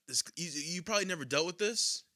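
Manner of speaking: halting mock-serious confession; imitated humblebrag. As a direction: imitate a friend hesitantly bragging about a problem. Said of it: "he literally said it like this".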